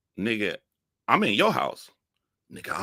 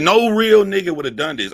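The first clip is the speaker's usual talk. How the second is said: higher and louder, laying down the law; scolding declaration; 12 semitones higher, 11 dB louder than usual. Retold or imitated. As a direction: hit it like a verdict. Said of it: "I said".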